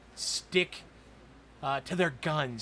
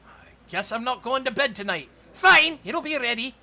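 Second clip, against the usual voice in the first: higher, fussy shopkeeper voice pricing a big order; baker NPC voice; 9 semitones higher, 3 dB louder than usual. Acted. Baker quoting the party a steep price, in a higher voice. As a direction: play the worried village baker, pitched up.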